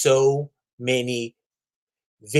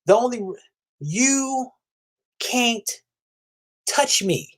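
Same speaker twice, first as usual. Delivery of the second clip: menacing taunt; 9 semitones higher, slower than usual. Pretend. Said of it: "cutting off the heads right in front of him and saying".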